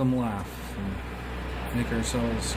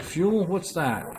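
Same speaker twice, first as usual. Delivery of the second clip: higher-pitched mock puzzlement; mock clueless; 6 semitones higher, slower than usual. Gamer joking about old unlimited fuel, mock clueless. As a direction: play dumb, pitched up on the question.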